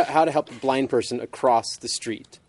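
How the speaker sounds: slow, deliberate. Shown as a demonstration. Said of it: "but how to he".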